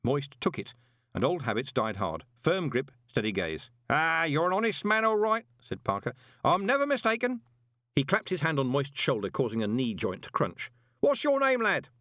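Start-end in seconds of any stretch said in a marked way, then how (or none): 3.9-7.4 high, loud, cheerful bellow. A narrator's reading. Parker cheerfully bellowing about his late spouses. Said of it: "bellowed cheerfully". 11.0-11.9 high, loud, cheerful bellow. A narrator's reading. Parker cheerfully bellowing about his late spouses. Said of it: "bellowed cheerfully".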